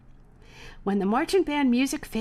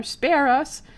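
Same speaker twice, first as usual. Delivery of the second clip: mock yell; 5 semitones higher, 6 dB louder than usual. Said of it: "cascaded from the balcony".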